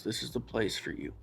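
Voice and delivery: soft reassurance. Retold or imitated. Trent comforting him softly.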